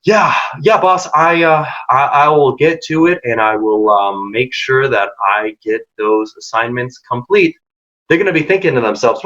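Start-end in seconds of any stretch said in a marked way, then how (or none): 0.0-7.5 slow, halting, dropping low with pauses; slow hesitant reply. Shown as a demonstration. Employee answering a fast-talking boss, slow and hesitant. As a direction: drag it out unsure, stumbling on I. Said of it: "But instead, if you respond by saying".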